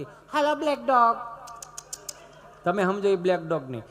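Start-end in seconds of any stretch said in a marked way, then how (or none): 0.0-1.2 higher, slow, sing-song hello to a dog; prissy English greeting. Retold or imitated. Educated tourist greeting a village dog in English, sing-song. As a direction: coo at the dog like a fancy lady. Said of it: "ઇંગ્લિશમાં હોય ને આમ ભણી ગયેલા બહુ".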